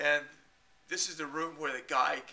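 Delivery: ordinary talk, nothing marked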